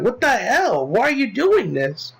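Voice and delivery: high, drawn-out mock protest; imitated outrage. Companion challenges the shooting, imitated high-pitched outrage. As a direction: act out an incredulous objection.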